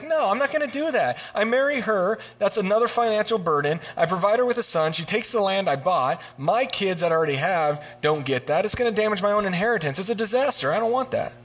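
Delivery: hammed-up panic over the inheritance; flustered refusal. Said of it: "he's even a little flusterated".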